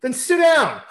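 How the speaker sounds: high, loud order with a laugh breaking in; curt command. Retold or imitated. Host retelling her greeting at the meeting, loud high mock order. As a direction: snap the order, laughing through it. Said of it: "she turns around and goes".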